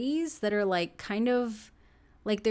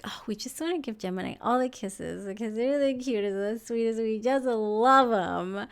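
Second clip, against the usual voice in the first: gushing Cupid fairies. Acted. Cupid fairies doting on Gemini, lightly acted gushing. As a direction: coo it like smitten little fairies, lightly put on. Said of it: "they're just like".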